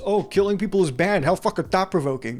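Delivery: sarcastic dismissive critic; mock belittling. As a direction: imitate someone scoffing at the game. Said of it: "dismiss the game and belittle the mechanics".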